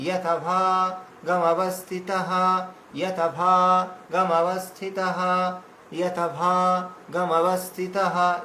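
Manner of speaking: যথাভাগমবস্থিতঃ said slowly, every syllable clear; slow careful recitation. Shown as a demonstration. Teacher modeling the verse line slowly for students. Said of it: "এভাবে উচ্চারণ করতে হবে".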